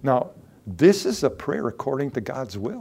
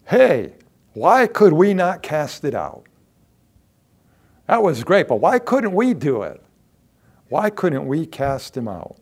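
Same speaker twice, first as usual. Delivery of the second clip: higher, louder puzzled asking; eager disciples; 3 semitones higher, 5 dB louder than usual. Acted. Disciples asking Jesus privately why they failed, eager. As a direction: press the teacher with questions. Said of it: "disciples asked him privately".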